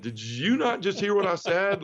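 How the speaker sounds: can't believe he missed it; incredulous. Retold or imitated. To Jay, who still wants him to lead, in disbelief. Answering Jay after confessing everything.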